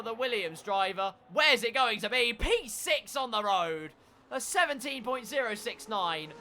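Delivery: energetic race commentary, building; live play-by-play. Real, not acted. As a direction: call the lap as it unfolds.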